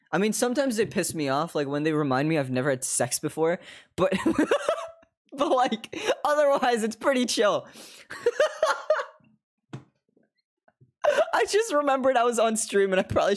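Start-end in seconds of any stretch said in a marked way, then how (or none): 4.2-4.9 very high embarrassed squeal of a laugh; high-pitched giggle fit. Real, not acted. Laughs at own overshare. 8.1-9.0 very high embarrassed squeal of a laugh; high-pitched giggle fit. Real, not acted. Laughs at own overshare.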